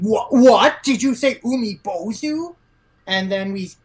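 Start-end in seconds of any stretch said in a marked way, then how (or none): 0.0-2.5 higher, louder startled double-take; startled question. Retold or imitated. Someone in the car startled at the name, surprised. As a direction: blurt it out in shock. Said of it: "someone's asking".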